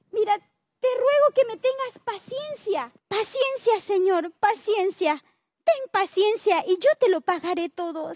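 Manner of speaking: a touch of begging for patience. Acted. Servant to king, understated begging for patience. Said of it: "Esa era la manera con que suplicaba".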